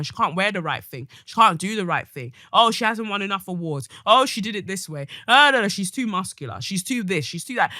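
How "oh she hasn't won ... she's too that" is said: sneering mimicry, louder; mock the nitpicking haters; sarcastic whiny imitation; mocking critics.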